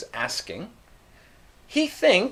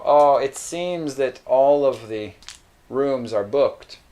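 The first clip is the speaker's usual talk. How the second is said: softened news; 2 semitones lower than usual. Shown as a demonstration. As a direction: break it kindly to the customer. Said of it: "making it a bit softer sounding".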